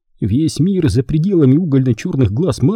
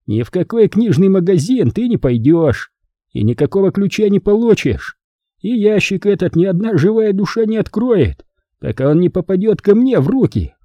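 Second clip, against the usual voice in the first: cold threat; 8 semitones higher than usual. Acted. Manfred threatens Charlie.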